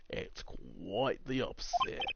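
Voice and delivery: put-on accidental Australian accent. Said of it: "I'm just going Australian again".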